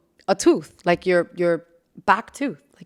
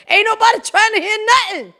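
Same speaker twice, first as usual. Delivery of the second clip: much higher, mocking nag voice; mock shrill elder; 12 semitones higher, 3 dB louder than usual. Imitating a fed-up relative, voice pitched much higher. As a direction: squeal it like a nagging aunt.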